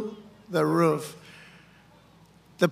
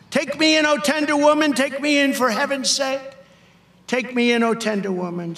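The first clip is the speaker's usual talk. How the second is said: pleading snake; 5 semitones higher than usual. Acted. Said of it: "sighed the vicious snake".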